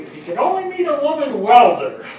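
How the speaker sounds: can't hold back the laugh while you tell the joke; laughing through it. Retold or imitated. Firefighter retelling Barney's dream-girl joke, laughing through it.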